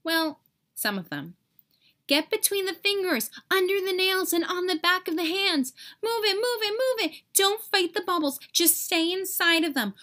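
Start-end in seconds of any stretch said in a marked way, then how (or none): 2.1-9.9 higher, urgent orders; urgent commands. Acted. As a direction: hurry the troops along. Germ commander urging to safe zones.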